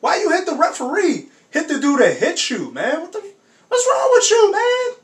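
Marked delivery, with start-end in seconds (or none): 3.0-5.0 shocked outcry. Real, not acted. Streamer yelling at the screen in disbelief, shocked outcry. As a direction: yell it out in real shock.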